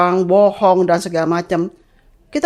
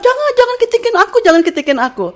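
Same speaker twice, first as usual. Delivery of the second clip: a mild mock whine, much higher and fast; scared pleading; 13 semitones higher, faster than usual. A mild imitation of the scared boy begging not to be tickled.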